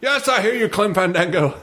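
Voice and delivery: grand announcer voice played for laughs; TV sketch voiceover. Host quotes the voiceover actor answering Clem Fandango. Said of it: "I forgot about Clem Fandango".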